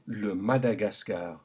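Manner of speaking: le Madagascar with open French a in every syllable; French vowel A. Shown as a demonstration. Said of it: "Say it again".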